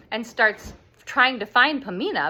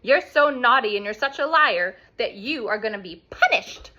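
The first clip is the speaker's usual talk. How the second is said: a touch higher, louder scolding; scolding ladies; 4 semitones higher, 4 dB louder than usual. Retold or imitated. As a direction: tell off the liar, amused but stern. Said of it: "the three ladies are like".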